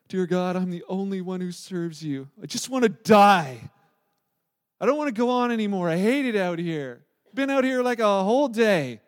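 loud, anguished cry of a man who wants to die; despairing cry. Retold or imitated. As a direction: wail it out as a broken prophet. Elijah's despairing prayer acted out.

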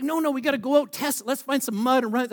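pleading, high-pitched enthusiasm; eager urging. Retold or imitated. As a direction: excitedly badger a friend into it. Excited friend urges a mud run.

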